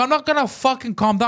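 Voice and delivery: high, furious retort, half yelled; worked-up mock yell; retold screaming. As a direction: refuse in retold outrage. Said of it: "Now I'm screaming".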